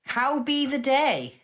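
a lightly voiced cheerful adventurer, slow at the end; chipper greeting. Spyro hails the stone giant politely, mild cheery voice. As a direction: politely hail the giant with a bright, slowed close. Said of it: "pipes up to the giant and goes".

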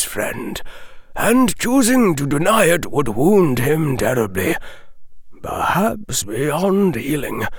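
put-on measured, grave old wizard. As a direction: speak as a wise old headmaster. Dumbledore answers gently.

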